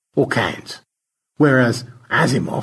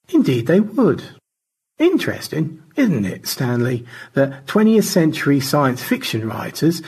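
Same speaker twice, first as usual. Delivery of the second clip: lightly voiced George, higher-pitched; chatty bookish character, a touch high; George's voice; 3 semitones higher than usual. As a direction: lift the pitch slightly for a musing book lover.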